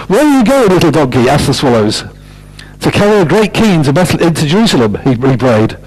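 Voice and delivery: lively picture-book read-aloud; story reading. Acted. Storyteller reading aloud to children, lively manner.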